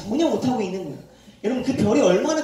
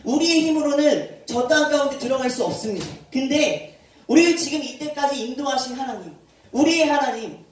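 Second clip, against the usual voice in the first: bold declaration. Retold or imitated. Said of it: "담대하게 선포했어요".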